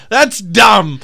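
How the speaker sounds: high, loud, laughing through it; mock disgust while cracking up; dismissive comic. Retelling the comic's putdown, laughing high. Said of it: "then he's like".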